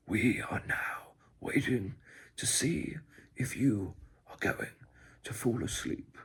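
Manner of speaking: slow, loud documentary narrator; David Attenborough. Acted. ASMR host narrating whether you fall asleep, documentary voice. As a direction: narrate it slowly like a nature film. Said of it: "David Attenborough".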